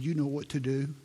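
a tender nudge, kindly. Retold or imitated. Husband gently urging his wife at the altar, tenderly. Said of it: "very kindly and tenderly said".

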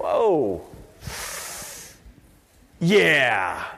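low, drawn-out oh yeah; reluctant response. Acted. Churchgoers answering Jesus' hard teaching, reluctant. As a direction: let it sink in slowly, voice dropping. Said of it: "we go".

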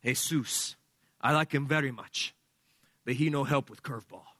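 put-on reply in a clumsy Cuban accent; terrible Cuban accent. Serrano answering the evangelical teammate, terrible Cuban accent. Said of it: "my terrible accent".

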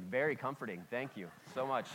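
dry, deadpan sarcastic thanks. Retold or imitated. Son answering pious visitors, deadpan sarcastic. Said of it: "I was like".

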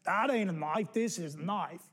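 put-on light Aussie accent on the knife line; mild Australian bushman accent. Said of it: "Mick Dundee in his accent".

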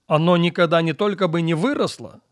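ordinary talk, nothing marked

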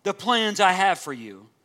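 slow, tender reassurance; gentle, loving. Acted. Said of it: "God reminds them so lovingly and so gently".

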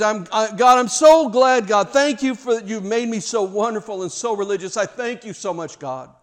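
high, loud gloating thanks to God; smug Pharisee prayer. Acted. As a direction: preen before God. Pharisee prayer again acted.

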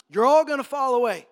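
big, emphatic announcement; blunt proclamation. Retold or imitated. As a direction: proclaim it forcefully to the whole room. Repeats the blunt prediction to all.

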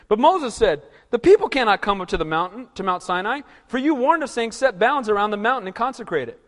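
loud formal reading of Exodus; scripture reading. Acted. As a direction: read the verses out like a proclamation. Reads scripture aloud.

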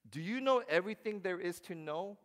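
loud, high rising challenge; God booming. Retold or imitated. God challenging Job, loud and high. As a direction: demand it from on high. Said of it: "but he's".

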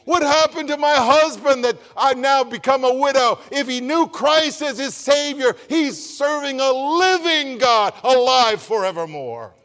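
preacher lifting the grieving; impassioned preaching. Acted. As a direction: preach with full conviction. Preaching at full force.

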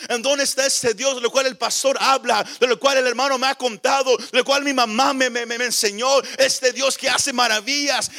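insistent preacher acting out frustrated questioning; acted, driving plea for answers; frustrated pleading. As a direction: pile up the complaints without letting up. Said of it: "Así se sentía Gedeón".

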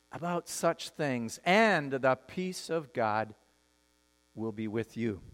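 slow, low and soft, pausing between phrases; hushed scripture close. Acted. Pastor ending the Bible passage for the congregation, slow and hushed. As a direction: let the verse sink gently to rest.

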